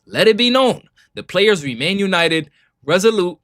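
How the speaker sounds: punchy, emphatic reading of a manifesto; dramatic statement read. Acted. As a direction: declare it like a rallying speech. Reads statement, then mocks it as a speech.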